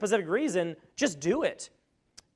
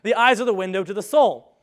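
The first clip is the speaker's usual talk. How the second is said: louder, hammed-up motivational speaker take; Zig impression; 6 dB louder than usual. Presenter retrying Zig's famous line, a louder mock-motivational boom. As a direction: boom it out like a mentor on tape. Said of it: "However he says that".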